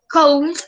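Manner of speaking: "could" alargado como "cold", con la O y la L sonando; pronunciación errónea. Shown as a demonstration. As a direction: di "could" mal, lento, pronunciando todas las letras. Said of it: "No se dice could". ("could" mal pronunciado, como "cold")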